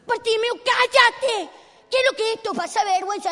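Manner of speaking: loud, high telling-off; exasperated scolding. Acted. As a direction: shut him up, embarrassed by him. Embarrassed crowd silences Bartimeo. (reto exasperado en voz alta)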